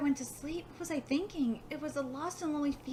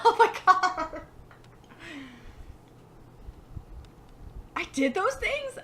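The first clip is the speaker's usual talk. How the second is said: surprised; 4 dB louder than usual. Real, not acted. Embarrassed by game character.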